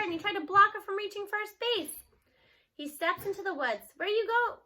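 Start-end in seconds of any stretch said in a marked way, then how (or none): 4.0-4.6 raised, high nervous calls; boy calling for grandma, uneasy; shouting. Acted. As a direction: call out into the dark woods. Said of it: "he shouts".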